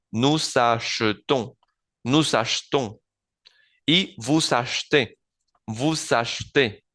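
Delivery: achetons and achetez slow, ash-tohn and ash-tay; slowly, vous achetez as voo-zash-tay; slow French drill. Shown as a demonstration. Teacher repeats the plural forms slowly, e dropped. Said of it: "no pronunciar esa E".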